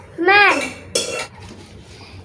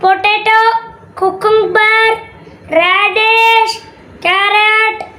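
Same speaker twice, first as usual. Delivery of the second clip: higher sing-song hawker's cry; vegetable seller's call; 4 semitones higher than usual. Acted. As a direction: chant the vegetables like a street seller. Vegetable man calling wares.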